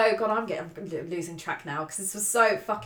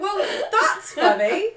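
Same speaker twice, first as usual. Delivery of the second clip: sarcastic retort; 9 semitones higher, 3 dB louder, much slower than usual. Retold or imitated. Retort to his laugh.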